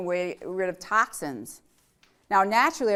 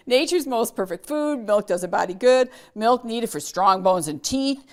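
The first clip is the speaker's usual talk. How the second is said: upbeat, louder commercial slogan read; 3 semitones higher, 6 dB louder than usual. Retold or imitated. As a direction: announce it like an old TV ad. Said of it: "what are the other slogans".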